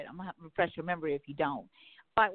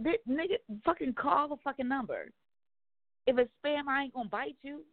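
higher-pitched irritated retort, retold; an exasperated reply to a wary date, retold with a raised pitch; retold exasperated snap; 6 semitones higher than usual. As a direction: sound fed up with his excuses. Retold angry reply to match.

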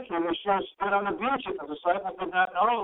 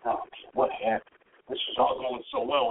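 depressed; 4 semitones lower than usual. Retold or imitated. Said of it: "kind of depressed and down".

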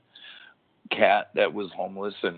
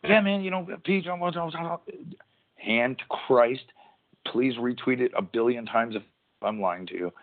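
a rambling pro wrestler talking moves, pitched up; Jeff Hardy impression; 6 semitones higher than usual. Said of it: "that's how he talks".

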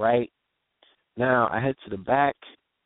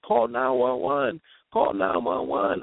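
slow, rising frantic cry for help; imitating a scared girl begging someone to call; retold panicked plea; slower than usual. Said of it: "she's crying and screaming".

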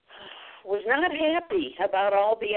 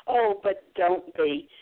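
reassuring; slower than usual. Retold or imitated. Teacher reassuring nervous child.

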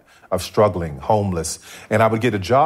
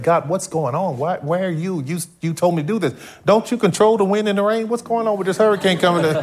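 angry prayer; 8 semitones higher than usual. Retold or imitated. Frustrated man praying over a hurricane, angry high complaint. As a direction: demand answers from God, rising in frustration. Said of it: "I'd be angry".

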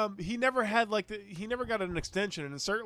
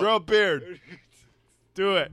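loud barked command; shouted order; 7 dB louder than usual. Pretend. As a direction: order it like a coach. Mock coach orders.

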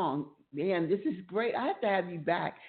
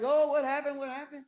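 alarmed husband; 10 semitones higher than usual. Retold or imitated. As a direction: imitate a baffled husband in a high voice. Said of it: "he's looking like".

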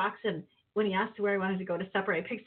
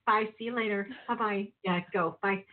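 syrupy sweet; 2 semitones higher than usual. Retold or imitated. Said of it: "all syrupy and like".

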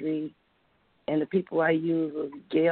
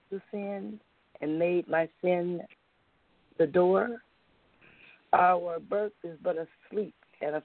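poem reading. Acted. Reads her found poem aloud.

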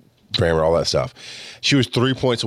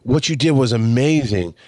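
higher, admiring gush; acted praise; 4 semitones higher than usual. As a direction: hype someone up as an acted example. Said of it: "without somebody saying".

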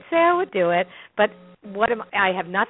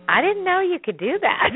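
stunned assistant; 9 semitones higher than usual. Retold or imitated. Assistant stunned after the reading.

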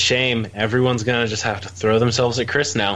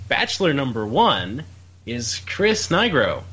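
dating show announcer; 3 semitones higher than usual. Acted. Dating show contestant intro.

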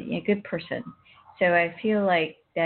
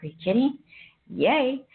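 imitating her own happy yelp, pitched higher; excited cheer; 7 semitones higher than usual. Retelling her epiphany to the listener, mock excited cheer. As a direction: replay the moment of delight with a bright squeal.

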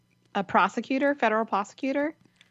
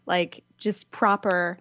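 royal British accent; much slower than usual. Shown as a demonstration. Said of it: "proper royal British accent".

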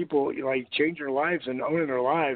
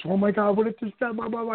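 mock worried daughter; 7 semitones higher, faster than usual. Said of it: "she gets".

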